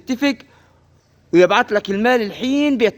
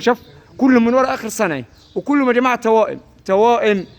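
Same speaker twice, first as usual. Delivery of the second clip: raised, excited market sales pitch; arabic street vendor cry; 3 semitones higher than usual. Acted. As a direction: call it out like a livestock seller hyping a bargain. Livestock seller hypes price, calls out. (نداء بائع في السوق بحماس)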